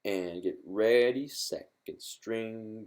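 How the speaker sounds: stretched-out, measured count-in; slow count-in. Shown as a demonstration. Guitar teacher cueing students to start together, slow count-in. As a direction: draw out each word to cue the players.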